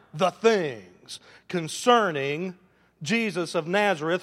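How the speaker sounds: loud, deliberate, declarative reading; scripture reading. Real, not acted. Preacher reading the disciples' answer to his church, proclaimed. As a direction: proclaim the passage phrase by phrase.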